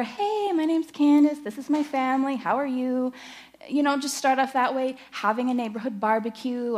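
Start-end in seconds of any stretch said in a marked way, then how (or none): 0.0-3.1 cheerful greeting. Pretend. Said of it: "Bring 'em over".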